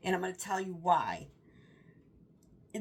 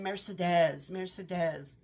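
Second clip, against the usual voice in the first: mock French pronunciation; slower than usual. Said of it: "I'm like, "Oh, that's a pretty name".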